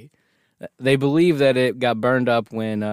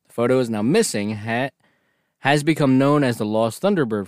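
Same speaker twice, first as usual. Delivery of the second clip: steady storyteller read of a legend; lightly read-aloud account; reading the story aloud. Acted.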